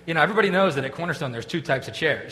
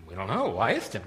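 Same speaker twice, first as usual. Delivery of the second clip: low, soft mock bafflement; stupefied; 6 semitones lower, 6 dB quieter than usual. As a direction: mumble like a dumbfounded student. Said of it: "we were all sort of stupefied".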